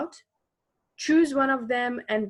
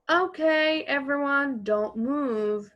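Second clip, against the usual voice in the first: calling out; 5 semitones higher, slower than usual. Acted. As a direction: call everyone to attention. Acting out a command to the group.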